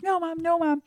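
put-on high whining child's protest; whiny toddler. Toddler refusing her mom, high whiny protest. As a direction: whine it like a two-year-old refusing. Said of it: "I'm like".

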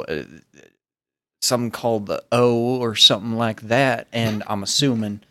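put-on a light Southern accent, friendly. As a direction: Malcolm introducing himself in a Southern accent. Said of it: "just do normal Southern".

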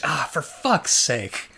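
slow, flat, neither angry nor shocked; weary resignation. Retold or imitated. Commentator resigned at the reveal, weary and unsurprised. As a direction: sigh it out like it was inevitable. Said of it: "not even angry or shocked".

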